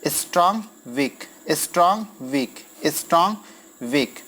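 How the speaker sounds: "स्ट्रॉन्ग" lifted, "वीक" dropping after it; trochaic pattern demo. Shown as a demonstration. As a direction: alternate "स्ट्रॉन्ग, वीक" word by word with pauses. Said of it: "ये just इसका उल्टा माना जाता है".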